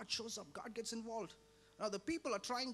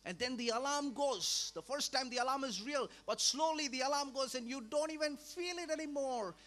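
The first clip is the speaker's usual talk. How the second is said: louder, higher, pressing the warning home; rising preacher's alarm; 3 semitones higher, 6 dB louder than usual. Real, not acted. Preacher warning the congregation, louder and higher. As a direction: sound the alarm over the congregation.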